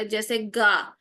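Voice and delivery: گا with a hard g, the wrong sound to avoid; hard g instead of ghain. Shown as a demonstration. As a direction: say گا like the letter gaf. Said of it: "گاف کی sound آئے گی".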